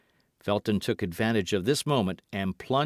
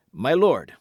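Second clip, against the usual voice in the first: loud, higher address; growing excitement; 4 semitones higher, 8 dB louder than usual. A narrator's reading. Felton addresses the Duke, growing excited. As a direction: break in with mounting agitation. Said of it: "becoming more excited as he spoke".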